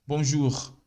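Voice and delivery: Bonjour ending on a throat R; French bonjour. Shown as a demonstration. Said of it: "pronuncie a palavra bonjour com o francês". (bonjour com pronúncia francesa)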